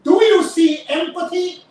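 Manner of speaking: emphatic "empathy" in a rising challenge; stress on empathy. Real, not acted. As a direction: lean hard on the word empathy, asked pointedly. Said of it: "And I emphasize on the word empathy".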